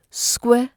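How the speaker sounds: "squir" on its own, crisp and clear; sharp first syllable. Shown as a demonstration. Teacher breaking squirrel down, "squir" sharp and clear. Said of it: "is sharp and clear".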